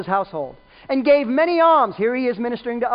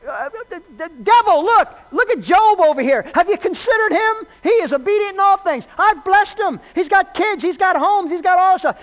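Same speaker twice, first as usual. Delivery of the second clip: higher and louder, bursting with proud bragging; excited daddy; 7 semitones higher, 5 dB louder than usual. Retold or imitated. God bragging to the devil about Job, excited proud daddy voice. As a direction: brag like a thrilled dad showing off his kid. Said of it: "like an excited daddy going".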